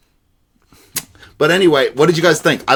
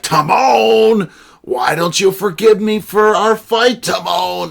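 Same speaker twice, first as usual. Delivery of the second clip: Pumbaa voice, mock wail; 9 semitones higher, slower than usual. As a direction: wail it like a heartbroken cartoon sidekick. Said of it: "he's like".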